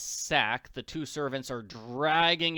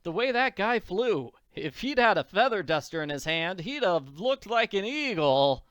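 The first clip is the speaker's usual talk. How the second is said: put-on high, louder, tickled kid voice; amused to herself; 5 semitones higher, 5 dB louder than usual. A narrator's reading. Annie mocking the Count's flight, amused. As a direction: act amused, as if holding back a laugh. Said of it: "Annie is laughing to herself".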